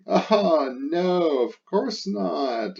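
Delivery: high mock-innocent kid reply; wanted answer. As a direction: play the child giving the hoped-for no. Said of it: "I want you to say".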